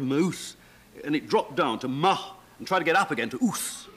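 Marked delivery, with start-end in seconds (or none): 0.0-0.6 moose with a wobbling vowel; wavering moose. Shown as a demonstration. Showing the vowel shift: moose, wobbling oo. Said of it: "instead of saying moose, it said".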